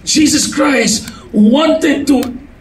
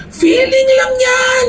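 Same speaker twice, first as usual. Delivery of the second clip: higher, slow, shouted retort; booming "just a feeling"; 10 semitones higher, slower than usual. Acted. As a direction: wave it off from the pulpit. Preacher's loud dismissal.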